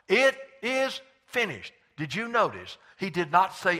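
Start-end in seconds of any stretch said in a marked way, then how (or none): 0.1-1.7 high, loud, slow proclamation; preacher's drawn-out shout of triumph; loud cry. Retold or imitated. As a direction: cry it out slowly from the cross. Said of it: "he just shouted with a loud voice".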